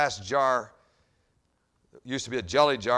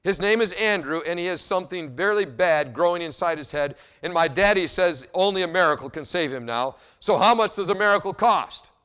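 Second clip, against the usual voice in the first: put-on higher pleading little girl voice; 4 semitones higher, 5 dB louder than usual. Little girl asking the pharmacist the price, high and pleading. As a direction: ask like a child who means it.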